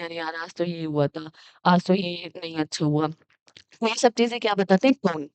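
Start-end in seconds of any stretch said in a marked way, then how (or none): 0.0-3.1 friendly tone. Shown as a demonstration. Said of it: "तब आप friendly".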